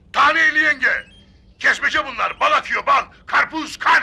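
mild market-stall hawker's sales call. A watermelon seller calls out his wares after being told not to shout, shouting. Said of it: "Yahu size bağırmayın demedim mi?".

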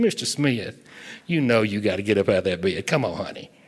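southern twang, sweet, coaxing tone. Explaining why young nurses are hired, the speaker imitates one waking a patient: southern twang. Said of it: "with her southern twang".

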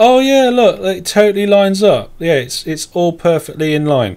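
ironic, sarcastic, plainly not meant. Arguing over whether the build's lines line up, sarcastic. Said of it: "That's sarcasm".

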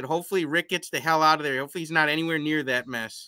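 ordinary delivery

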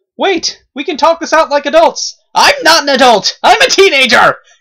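very high, shrill, full-volume scream. Voicing a character's lines in a scene: screaming. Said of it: "I kind of screamed that one".

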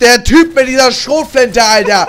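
loud, slow, frustrated yell with laughter.

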